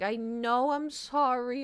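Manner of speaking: sorry through tears; crying apology. Real, not acted. Crying, cat in carrier.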